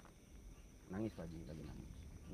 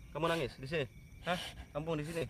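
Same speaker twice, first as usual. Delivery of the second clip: raised, insistent question; loud questioning; 7 semitones higher, 4 dB louder than usual. Real, not acted. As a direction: press the hidden spirit for an answer. Questioning a spirit at a tree. (bertanya keras dan mendesak)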